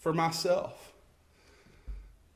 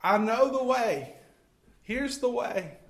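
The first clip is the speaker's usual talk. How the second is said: raised higher, half-shouted proclamation; mild shout out; 6 semitones higher than usual. Pretend. Students shout the way to a hostile world, half-shouted. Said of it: "Shout out".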